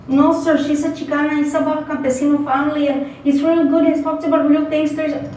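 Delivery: student defending his book to the professor; student Beto. Acted. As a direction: plead earnestly as a young student. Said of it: "a student called Beto".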